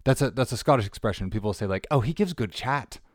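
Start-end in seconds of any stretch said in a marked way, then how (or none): 1.9-3.0 light Australian twang on the quote; Australianish accent. Retold or imitated. Host quoting a Scottish saying, in a mock Australian accent. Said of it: "I said that in an Australianish accent".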